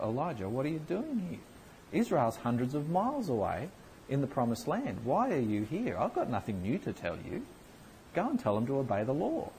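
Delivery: God asking Elijah why he is here; God's voice. Acted. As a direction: gently send the prophet back home.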